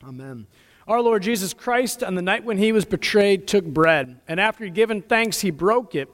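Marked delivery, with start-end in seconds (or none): none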